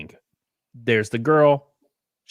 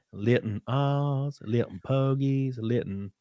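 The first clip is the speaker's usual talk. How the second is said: slow, lightly voiced made-up language; imitating Nell; 4 dB quieter, slower than usual. Retelling the movie character's private language, slow light imitation. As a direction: drawl the invented words slowly, a hint of Nell. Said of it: "She spoke her own language".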